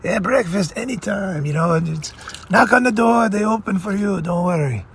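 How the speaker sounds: put-on friend's rich father offering free meals, light Italian accent; Italian Godfather accent. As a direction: play the Italian Godfather welcoming his son's friend. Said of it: "I'm doing, like, an Italian thing".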